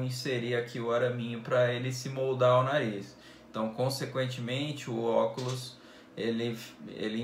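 muffled by cloth balaclava; speaking behind fabric covering; through a face mask. Real, not acted. Seen 2: Balaclava covers mouth until 2.3s; then removed, held in hand.

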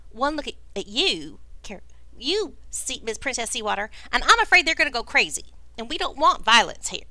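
nervous polite southern host; fretful sweet-talking plea. Acted. GM voices Crackdust, anxious.

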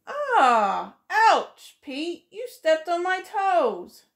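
little squirrel stung by a stepped-on toe; hurt squirrel. Acted. Squirrel telling Pete he stepped on her toes, yelping.

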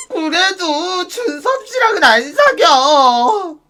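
whiny refusal. Acted.

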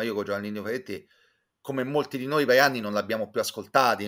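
ordinary delivery

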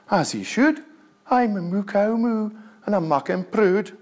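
a hint of a smug, placid cow; cow's reply. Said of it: "And you say this".

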